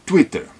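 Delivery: Twitter with a tight tw; English Twitter. Shown as a demonstration. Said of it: "twi, não tui".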